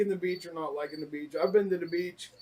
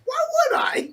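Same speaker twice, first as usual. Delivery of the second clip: high laughing shout. Real, not acted. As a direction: yell it through a laugh, much higher. Joking shout while laughing.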